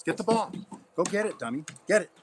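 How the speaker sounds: playful high call to fetch; high-pitched dog talk. Real, not acted. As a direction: coax the dog in a high sing-song.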